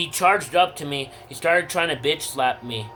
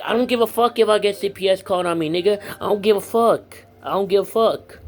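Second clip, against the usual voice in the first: fast, higher, defiant retort to the nurses; 3 semitones higher, faster than usual. Retold or imitated. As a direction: throw it back at them, fast and defiant. Retold defiance against nurses.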